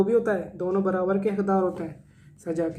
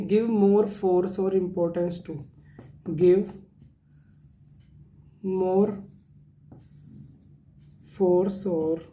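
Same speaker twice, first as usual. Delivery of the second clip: very slow, word by word; slow definition read for notes; slow dictation; much slower than usual. Shown as a demonstration. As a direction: dictate each word slowly. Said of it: "teacher dictates definition slowly".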